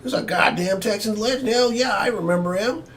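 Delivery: high-pitched mock superfan; high mocking impression of a fan; diehard fan. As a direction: put on a diehard fan's voice, way up high. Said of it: "you're gonna have certain fans".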